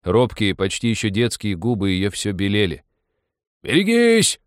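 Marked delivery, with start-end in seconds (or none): 3.6-4.4 high, loud warning yell; wild yell. A narrator's reading. Railwayman yells at the girl near the rails, wild and loud. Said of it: "раздался вдруг дикий крик".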